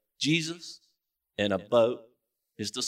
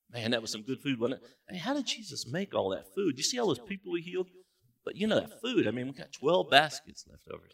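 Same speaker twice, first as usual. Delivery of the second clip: casual, easygoing fishermen chatter; lightly voiced lazy disciples; relaxed disciples chatting; 3 dB quieter than usual. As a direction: play the disciples lounging after a meal. Preacher acts out relaxed disciples.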